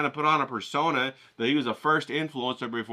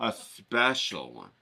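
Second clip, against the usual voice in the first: sarcastic drag; 4 semitones lower, 4 dB quieter, much slower than usual. Acted. Sarcastic repeat, slow low.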